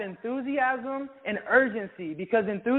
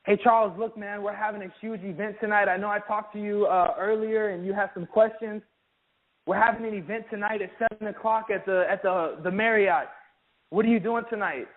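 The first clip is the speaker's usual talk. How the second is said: urgent invite demo. Shown as a demonstration. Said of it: "You have to be urgent".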